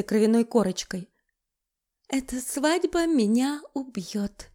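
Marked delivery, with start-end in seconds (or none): 2.1-4.5 soft, slow, faint smiling line; dazed bride smiling weakly. Acted. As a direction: say it faintly with a smile. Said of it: "улыбнулась Маша".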